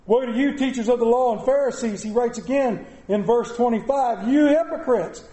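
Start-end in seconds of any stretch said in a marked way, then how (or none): 0.0-2.0 raised preaching. Acted. Second woe, raised.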